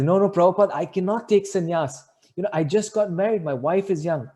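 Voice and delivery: high, loud flustered protest; retold pleading. Newly married devotee refusing sannyas, flustered pleading. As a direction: act out begging to be let off.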